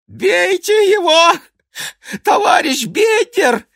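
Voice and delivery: very high, loud cry; shout from the ground. Acted. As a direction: yell out for help, breathless from the struggle. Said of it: "кричал с земли отдышавшийся".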